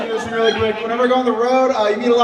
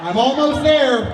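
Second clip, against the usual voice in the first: mock climax; 4 semitones higher, slower than usual. Mock orgasm continued.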